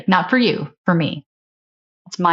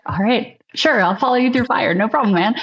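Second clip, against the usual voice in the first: lifted, higher-pitched willing reply; eager agreement; 5 semitones higher than usual. Retold or imitated. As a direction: act out being instantly won over. Acts out won-over loyal reply.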